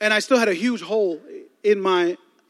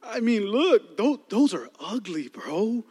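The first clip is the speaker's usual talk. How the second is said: softer, faltering mock excuses; stuttering excuse; 4 dB quieter than usual. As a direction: fumble for words, trailing off. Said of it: "he starts stuttering".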